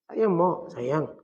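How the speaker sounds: softly reported endearment to mother; gentle, subdued child's plea; tender, tearful manner. Retold or imitated. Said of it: "ditutur dengan air mata dia".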